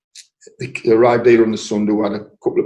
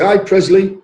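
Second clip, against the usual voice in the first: high, loud hello across the bar; friendly call-out; 8 semitones higher, 6 dB louder, slower than usual. Retold or imitated. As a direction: greet him like a regular. Lads greeting him in club.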